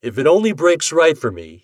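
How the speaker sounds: a hint of a cocky bettor; Ashton voice. A narrator's reading. Ashton dreaming.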